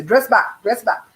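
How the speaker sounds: Belizean phrasing. Shown as a demonstration. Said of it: "how Belize people say".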